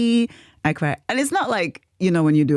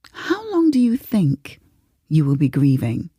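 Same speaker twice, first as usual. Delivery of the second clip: therapist; 3 semitones lower than usual. Retold or imitated. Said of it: "that's what the therapists do".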